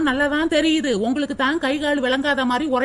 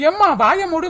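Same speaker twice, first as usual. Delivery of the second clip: mock echo; 4 semitones higher, 4 dB louder than usual. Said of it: "வாயை மூடுன்னு என்கிட்டயே சொல்லிக்கிட்டு".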